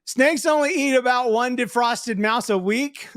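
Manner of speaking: lightly voiced young kid. Shown as a demonstration. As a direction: read it as a little kid. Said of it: "oh, wait, voice".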